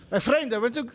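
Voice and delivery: botched attempt at an Indian accent. Shown as a demonstration. Guest auditioning an accent for the actor, botched Indian. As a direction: have a shaky go at Indian English. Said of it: "Do your Indian accent".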